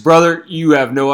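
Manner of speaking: wrestling promo. Pretend. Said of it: "looking like fucking Macho Man Randy Savage".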